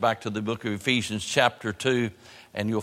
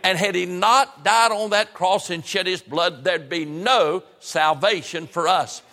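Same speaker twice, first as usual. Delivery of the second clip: raised, emphatic sermon delivery; preaching; 6 semitones higher, 3 dB louder than usual. Real, not acted. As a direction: preach it with higher, punched key words. Preaches salvation to congregation.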